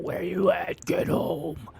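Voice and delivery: mom's voice, high and frantic; freaking-out mom. Retold or imitated. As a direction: mimic a panicked mother yelling you home. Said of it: "my ma calls me freaking out".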